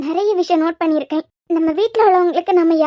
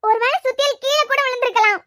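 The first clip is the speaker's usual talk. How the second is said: higher, choked-up scolding through tears; tearful scolding; 4 semitones higher than usual. Acted. Woman scolding injured Guru, crying and upset. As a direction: scold him while fighting back tears. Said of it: "அழுறீங்களா?".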